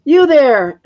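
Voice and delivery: put-on old witch shouting up at the dragon. A narrator's reading. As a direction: challenge him with a sharp shout. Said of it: "the old witch shouted".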